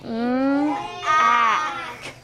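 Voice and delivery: Mm held, then ack split off; segmented sounds. Shown as a demonstration. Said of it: "What did A say".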